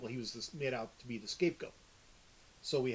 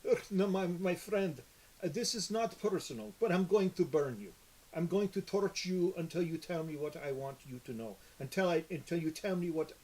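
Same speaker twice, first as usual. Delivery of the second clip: higher, menacing villain voice promising to burn; fire sorcerer; 3 semitones higher, 3 dB louder than usual. Acted. Sorcerer threatening his captive with fire, higher menacing voice. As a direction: play the calm, cruel sorcerer threatening a prisoner. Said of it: "do the sorcerer that you had. It was a fire-based sorcerer".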